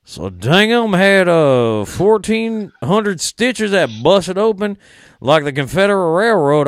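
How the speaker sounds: hammed-up Southern good ol' boy; Southern wrestler impression. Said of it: "I hate trying to do his voice".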